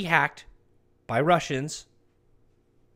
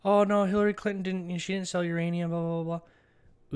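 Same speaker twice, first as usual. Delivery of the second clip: higher, sing-song mock of the doubters; 4 semitones higher than usual. Vlogger mocking people who defend Clinton, sneering sing-song. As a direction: brush off the doubters' excuse with a sneer. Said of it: "where people say".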